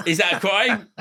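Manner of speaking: normal talking voice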